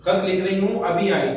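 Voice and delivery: wife calling loudly from the next room. Acted. Wife calling to the child while writing, loud. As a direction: raise her voice to reach the child. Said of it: "जोर से".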